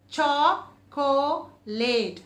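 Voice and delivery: very slow, each beat apart; syllable by syllable. Shown as a demonstration. Teacher leading chin counting, slowly. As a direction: drag it out beat by beat. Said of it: "How many times your chin is going".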